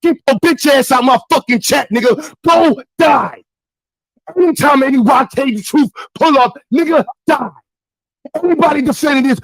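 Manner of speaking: furious streamer rant with punched endings; angry tirade. Real, not acted. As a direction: lash out at the chat in anger. Cursing defenders out of his chat.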